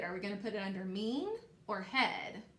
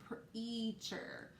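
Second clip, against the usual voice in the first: Preacher whispered, voiceless and soft; teacher whispering the word for kids to listen; 7 dB quieter than usual. Shown as a demonstration. Teacher models word softly.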